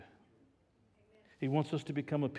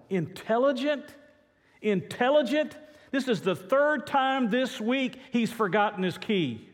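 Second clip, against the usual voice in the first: high, louder mocking disbelief; scoffing owner; 10 semitones higher, 5 dB louder than usual. Owner scoffing at the man, high and loud. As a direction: sneer at the idea the dog is smart. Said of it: "The owner replied".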